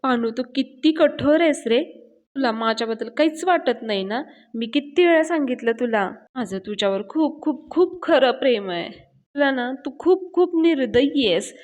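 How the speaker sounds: mildly acted tearful complaint, pitch rising in places; tearful pleading. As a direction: plead with a touch of mock weeping. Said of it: "पायल खूप मोठ्याने रडत असते". (हलकीशी रडवेली, कळवळून केलेली तक्रार)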